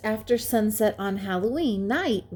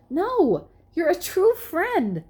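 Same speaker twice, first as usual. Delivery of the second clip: much higher, eager; reassuring scientist pig; 10 semitones higher than usual. A narrator's reading. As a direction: reassure him with feeling.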